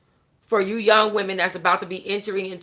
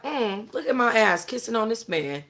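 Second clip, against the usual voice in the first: mock disbelief at herself; 3 semitones higher, 4 dB quieter than usual. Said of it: "I'm still looking at me like".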